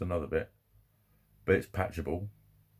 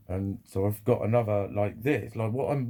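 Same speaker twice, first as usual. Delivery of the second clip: normal talking voice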